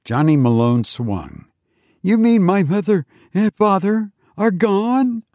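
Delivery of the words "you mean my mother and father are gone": put-on dismayed boy. A narrator's reading. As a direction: ask it high, as a boy in disbelief. Boy near tears learns parents gone.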